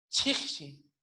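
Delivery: "chixi" with a rush of air on CH; aspirated CH. Shown as a demonstration. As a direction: breathe through the CH of "chixi". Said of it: "C H aspirada".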